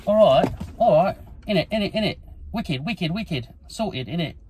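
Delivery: cockney geezer act. Pretend. Mucking about on camera as a cheeky London geezer. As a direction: ham up a cheeky London lad, innit.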